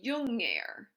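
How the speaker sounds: "junger" said as jünger, with a fronted rounded Ü; umlauted U. Shown as a demonstration. Teacher modelling the comparative of jung, "junger" with umlauted U. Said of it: "umlaut that U and say".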